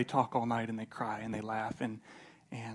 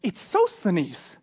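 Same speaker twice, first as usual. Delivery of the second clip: loud, slow, higher-pitched announcement; calling out; 5 semitones higher, 7 dB louder, much slower than usual. Retold or imitated. Paul at the window announcing his visitor, mock calling out. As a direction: stretch the name out as if calling through the house. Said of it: "imagine Paul opening up the window going".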